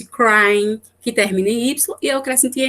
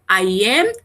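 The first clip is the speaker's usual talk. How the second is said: slow example read; much slower than usual. Shown as a demonstration. Teacher reads English example.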